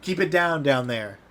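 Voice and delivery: loud shout through the house; yelling. Acted. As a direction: yell it down to the people below. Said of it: "a gentleman yelling".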